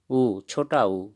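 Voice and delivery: ऊ said slowly and plainly; slow simple vowel. Shown as a demonstration. Teacher demonstrating the short vowel slowly for viewers. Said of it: "simple सा उच्चारण होता है".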